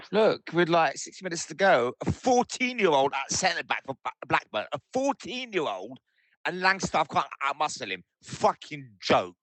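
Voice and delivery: raging fan voice note, pitched high; exasperated rant. Real, not acted. Furious fan rant, late goal.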